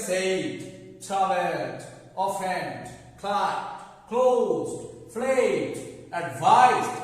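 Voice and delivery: "played" and "advised" ending in a voiced d; final d sound. Shown as a demonstration. Teacher lists verbs for viewers, "played" ending in d. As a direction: close each verb from "traveled" to "advised" on d. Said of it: "দেখেন শেষে ড sound".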